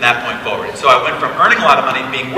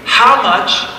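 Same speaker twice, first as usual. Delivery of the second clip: high, excited, laughing disbelief; amazed friend; 7 semitones higher, much slower than usual. Retold or imitated. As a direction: gush like a stunned buddy. Friend calls, amazed, retold.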